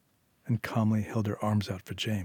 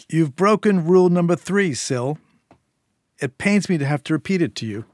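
higher, louder cold scolding boss; menacing gang boss; 6 semitones higher, 6 dB louder than usual. A narrator's reading. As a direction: lecture her like a patient but dangerous boss. Eddie scolds Syl.

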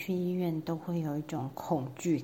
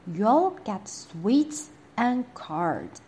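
coaxing doctor; slower than usual. Acted. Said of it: "said the doctor".

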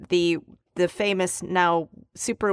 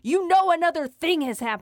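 ordinary talk, nothing marked

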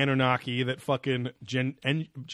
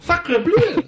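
put-on high squeaky French accent; french chef; 11 dB louder than usual. Joan answers the saints.

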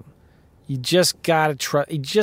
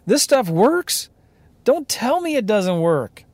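can't believe the deal is this easy; excited disbelief; 6 semitones higher than usual. Retold or imitated. Telling how the title company's okay made him giddy, excited disbelief. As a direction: pitch jumps way up, giddy and amazed. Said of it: "man, I was so excited".

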